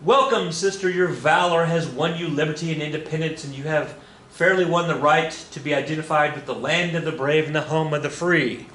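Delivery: lightly voiced welcoming speech, opening high; President Polk. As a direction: declaim it lightly as a formal welcome. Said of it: "and he's gonna say".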